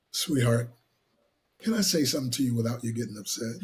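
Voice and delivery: low, soft, careful request; gently defuse him, imitating a calm wife; imitated quiet demeanor. Husband showing how wife disengages him, quiet and gentle. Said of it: "here's how she, uh, disengages me".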